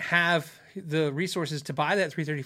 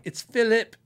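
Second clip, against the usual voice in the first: higher, louder snob saying "Philip"; mock-pretentious, insist on the proper "Philip"; pretentious correction; 6 semitones higher, 5 dB louder, slower than usual. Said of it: "what a pretentious douche to be like".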